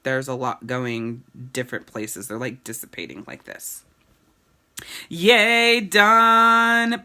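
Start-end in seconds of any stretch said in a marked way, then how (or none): 5.1-7.0 loud, high celebratory yay; whooping to the live viewers; excited cheer. Real, not acted. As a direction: cheer it out, done at last. Cheering the end of Q&A.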